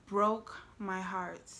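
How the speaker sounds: drawn out word by word; slow, weighted repeat. Real, not acted. Storyteller recalling his heartbroken look, slow and weighted. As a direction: let each word land slowly.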